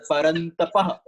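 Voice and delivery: Parantapah ending on an "ah" with an h release; final ah sound. Shown as a demonstration. Teacher giving Arjuna's name, Parantapah with audible final ah. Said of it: "that ah sound at the end".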